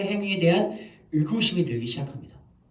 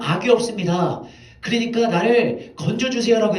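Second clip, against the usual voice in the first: higher, louder pleading cry; David crying out; 4 semitones higher, 4 dB louder than usual. Retold or imitated. David calls out to Saul before the troops, raised and pleading. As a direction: call out your innocence, raised up high. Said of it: "사울을 불러서 외칩니다".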